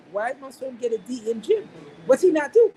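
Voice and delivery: retelling how baffled dad pushed back; incredulous dad. Retold or imitated. Dad questioning son's D grade.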